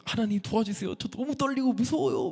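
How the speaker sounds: high, soft pleading prayer; scared prayer. Retold or imitated. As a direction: plead for help, acting out your nerves. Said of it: "너무 무섭더라고요". (겁먹은 듯 떨리는 마음으로 기도)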